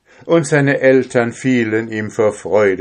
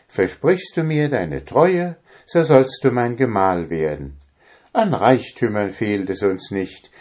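put-on higher, earnest young princess; 3 semitones higher than usual. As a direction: speak as a grateful princess. Princess speaks to the drummer.

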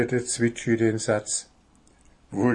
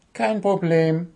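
goblin; 7 semitones higher than usual. Acted. Goblin reassures.

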